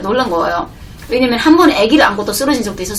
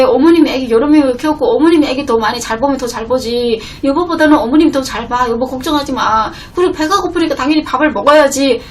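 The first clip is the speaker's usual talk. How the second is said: a touch of indignant raised voice at husband; wife mildly scolding husband for eating; mild retold accusing; 2 semitones higher than usual. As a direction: press him, half-heated. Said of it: "남편한테 막 따지기 시작했어요".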